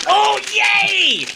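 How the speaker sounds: high, loud squeal of delight; excited high-pitched whoop. Real, not acted. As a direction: cheer with a long, high yay. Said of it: "I'm so excited".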